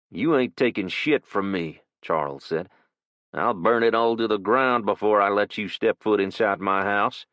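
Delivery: put-on a cornered old man defending his home; defiant old man. Old man threatens intruders.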